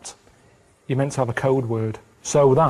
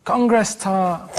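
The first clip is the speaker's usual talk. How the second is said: Congress tart drawn out very slowly; slow code word; 3 semitones higher, much slower than usual. Pretend. Kidnapped Carl on the phone, slow deliberate code word.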